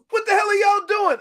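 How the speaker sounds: high-pitched mock yell; retold indignant outburst. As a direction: act out a teammate's indignant demand. Retold angry teammate after the hit.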